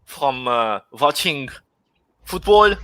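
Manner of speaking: put-on German accent. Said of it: "Arthur is trying to do a German accent".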